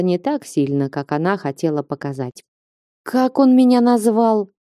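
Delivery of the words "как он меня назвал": high-pitched shocked question. A narrator's reading. Girl reacting to an insult from a man, shocked. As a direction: pitch it up in offended disbelief. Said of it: "шокированно спросила она".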